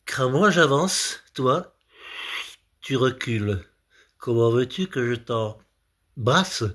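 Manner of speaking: lightly declaimed verse with long pauses; mock love poem. Comedian interpreting a man's love poem, mock-earnest recital.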